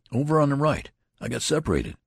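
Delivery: glib excuse. Acted. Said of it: "with considerable glibness".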